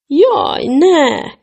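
a high, loud dismayed cry. A narrator's reading. Father crying out in dismay at the invisible tree. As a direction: yelp it out in alarm. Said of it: "kiáltott fel Nyurga apuka".

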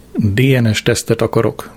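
plain reading voice

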